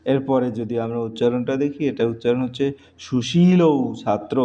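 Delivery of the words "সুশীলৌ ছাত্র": সুশীলৌ drawn out, ending in a gliding ou; wrong form demo. Shown as a demonstration. Teacher reads out the faulty phrase for correction, সুশীলৌ ending in ou. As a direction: stretch the final ou of সুশীলৌ. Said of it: "এটা ভুল".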